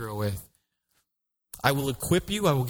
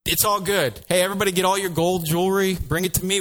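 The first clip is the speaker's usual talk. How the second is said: calling Aaron; 6 semitones higher than usual. Acted.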